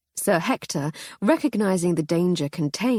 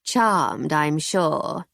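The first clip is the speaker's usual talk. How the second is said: nasal voice; much slower than usual. Acted. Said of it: "in an unpleasant nasal voice".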